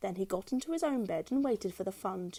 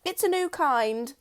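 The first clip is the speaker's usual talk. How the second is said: higher, slow, sugary; sly wife; 7 semitones higher, 4 dB louder, slower than usual. A narrator's reading. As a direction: hide the trick. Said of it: "says Missus Twit".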